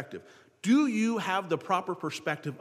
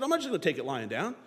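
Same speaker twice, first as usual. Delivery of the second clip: fast, eager, confident David; lightly hammed-up defiant David; bold David; 4 semitones higher than usual. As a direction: rush in like a fearless boy. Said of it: "David said".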